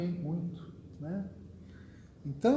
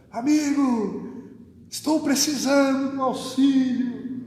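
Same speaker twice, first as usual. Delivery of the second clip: higher, louder, slow hammed-up call to a friend; mock shouting; 8 semitones higher, 6 dB louder than usual. Praying to a friend, shown as a silly loud shout. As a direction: stretch out and shout the plea. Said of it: "não fala gritando com o amigo".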